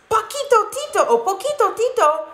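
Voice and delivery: high, delighted exclamation; exclaiming. Acted. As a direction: greet an old friend with a high burst of joy. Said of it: "exclaimed Scipito".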